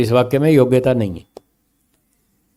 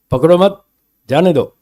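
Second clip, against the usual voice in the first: पकड़ो मत joined and rising, pause, then जाने दो; group मत with पकड़ो, break before जाने दो; pause after मत; 4 semitones higher than usual. Acted. Jailer ordering the constable, pause placed after मत. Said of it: "ये मत शब्द को इधर जोड़ेंगे".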